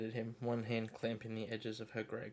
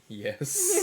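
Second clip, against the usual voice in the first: flat; 12 semitones higher, 12 dB louder than usual. Acted. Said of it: "Nesta said flatly".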